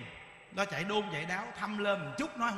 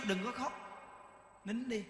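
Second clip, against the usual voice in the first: soft coaxing; 12 dB quieter than usual. Retold or imitated. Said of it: "mình kêu".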